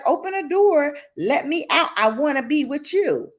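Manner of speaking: high pleading mock whine; lightly voiced pleading pet; whiny dog voice. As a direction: voice the dog begging to be let out. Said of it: "she's like".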